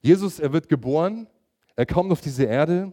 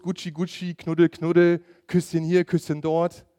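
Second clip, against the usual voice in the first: put-on baby talk; 3 semitones higher than usual. Preacher showing how adults coo at a baby, playful baby talk. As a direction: coo at a newborn like a doting aunt. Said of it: "ich fange an, komische Geräusche zu machen".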